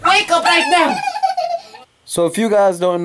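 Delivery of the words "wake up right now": higher, louder mock command; playful parent shouting the baby awake; mock stern wake-up. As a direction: pretend to be strict, playfully.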